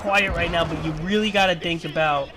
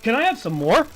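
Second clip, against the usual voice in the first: mock consumer; 4 semitones higher than usual. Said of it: "shoveling shit in your mouth".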